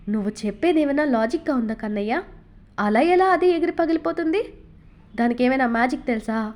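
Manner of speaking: a touch of exasperation, rising on the middle question; half-cross mother, not really angry; mild scolding of a fibbing son; mild irritation. Acted. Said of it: "చిరుకోపంగా అడిగింది".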